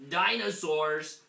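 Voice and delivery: high, slow, excited cry; excited shout. A narrator's reading. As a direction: shout it with glee.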